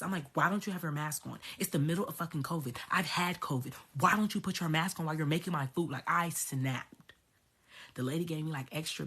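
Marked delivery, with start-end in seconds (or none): 0.3-5.9 fast, irritated telling-off, mildly re-enacted; pissed-off scolding. Customer scolding maskless Popeyes staff, pissed off. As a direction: retell snapping at careless staff at speed. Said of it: "straightened up because I was pissed".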